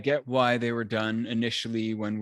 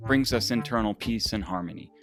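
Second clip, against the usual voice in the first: upbeat sponsor read over music; polished host reading the sponsor message; 3 dB louder than usual. Acted. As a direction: sell it like a podcast ad spot.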